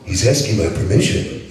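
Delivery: lightly voiced cocky action hero reading a romance; Duke Nukem. Reading Fifty Shades aloud to a laughing crowd as a cocky hero. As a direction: read the steamy book as a swaggering hero, mildly done. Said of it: "Would you read that as the Duke for us?".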